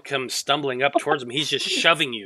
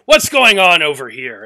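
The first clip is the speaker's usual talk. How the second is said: guard calling out; 2 semitones higher, 9 dB louder than usual. Acted. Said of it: "He's like".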